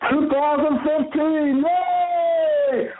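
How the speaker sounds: high squealing yay; cheering. Acted. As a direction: celebrate like a crowd. Mock celebration cheering.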